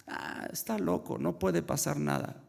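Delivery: high-pitched, careless brush-off; mock dismissal. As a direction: play the heedless boys shrugging off danger. Boys dismiss the second warning. (desdén despreocupado, imitado)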